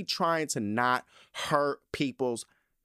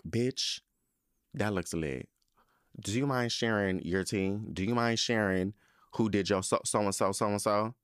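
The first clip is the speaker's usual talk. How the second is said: polite asking; 5 semitones lower than usual. Retold or imitated. Mock-sweet compliment to a stranger, lightly softened. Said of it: "I be like".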